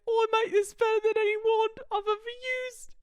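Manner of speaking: high, hammed-up British wizard voice; Harry Potter. Harry praising his gun as a wand, high mock-British voice. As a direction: boast as a mock boy wizard. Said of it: "Harry's got a taste for".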